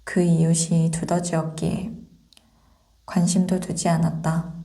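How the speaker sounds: ordinary delivery, nothing marked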